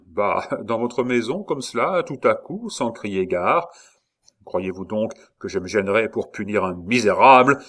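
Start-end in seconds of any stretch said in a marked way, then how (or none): 4.5-7.6 éclat exaspéré, un peu plus fort; menace, à bout de patience. Acted. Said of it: "s'écria le comte exaspéré". (le comte exaspéré menace Saint-Luc, plus fort)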